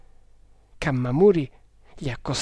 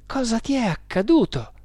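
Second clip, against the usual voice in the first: solicitous; 8 semitones higher than usual. A narrator's reading. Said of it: "gli chiese premurosamente Kammamuri".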